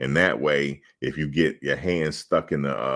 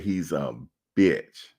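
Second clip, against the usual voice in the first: blunt insult; slower than usual. Retold or imitated. Player repeating the insult to the ref, flat and blunt. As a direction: drop the insult matter-of-factly. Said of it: "I said it just like that".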